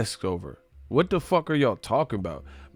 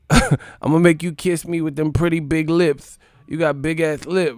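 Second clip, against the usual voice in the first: lightly imitating Tyson's taunt, a bit higher; a hint of Mike Tyson mocking his rival; 5 semitones higher, 5 dB louder than usual. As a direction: tease like Tyson, pitched up. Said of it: "He said".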